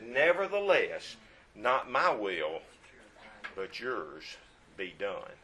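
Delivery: slow, yielding, fading into quiet; slow surrender. Acted. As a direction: let each phrase sink slowly, giving in. Quoting Jesus' surrender in prayer.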